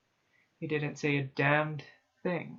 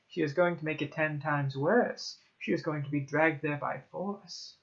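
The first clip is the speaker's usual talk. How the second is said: ordinary delivery, nothing marked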